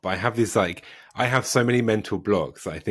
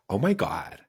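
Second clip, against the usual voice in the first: attempted California American accent; British speaker's try at American. Shown as a demonstration. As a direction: put on an American Valley girl accent. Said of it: "say in American accent is".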